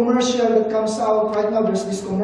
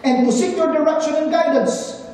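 raised, fervent prayer voice; earnest prayer read aloud; 4 semitones higher than usual. Retold or imitated. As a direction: pray it out as if addressing God. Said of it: "when he prayed the opening prayer".

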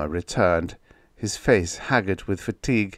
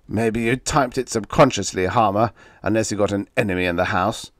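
mocking; 3 dB louder than usual. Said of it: "The mocking voice hung up".

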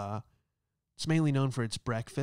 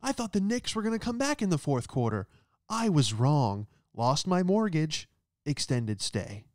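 mock ad gambler; 4 semitones higher than usual. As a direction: confess like a cheesy commercial. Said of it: "somebody with a gambling problem".

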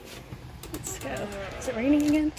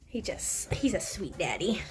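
soft fond whisper; 3 semitones lower, 5 dB quieter than usual. Real, not acted. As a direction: breathe it under your voice. Fond aside about husband.

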